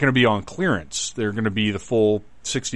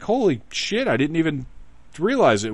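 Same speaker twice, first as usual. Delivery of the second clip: mock surprise; 7 semitones higher than usual. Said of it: "I was like".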